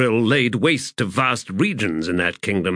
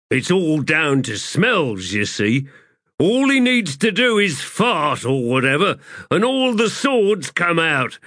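put-on a young boy, earnest, a touch higher; a hint of a boy's voice, rising at the end; lightly voiced boy; 7 semitones higher than usual. A narrator's reading. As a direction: explain it simply, like a sharp kid. The boy Grub explains.

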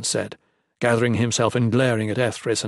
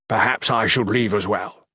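uncertain. Acted. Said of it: "Chatan said uncertainly".

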